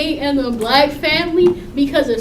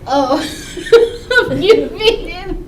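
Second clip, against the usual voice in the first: laughing stern dad; 4 dB louder, slower than usual. Retold or imitated. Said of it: "then he be like".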